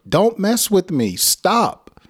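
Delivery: high, loud call for help; loud angry yell. Shown as a demonstration. Teacher demonstrating a loud yell to draw help. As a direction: yell it so someone nearby will come. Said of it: "express your anger loudly".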